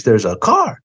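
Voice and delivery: half-hearted imitation of screaming, rising on HIT; mock-urgent warning at ordinary volume. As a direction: act out an urgent warning without really yelling. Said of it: "if I'm screaming at the top of my voice".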